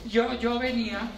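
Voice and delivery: drawn-out, slow start; slow talker. Retold or imitated. Preacher imitating a slow joke teller, slow and drawn out. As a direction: mimic someone dragging out a joke. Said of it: "Entonces la persona".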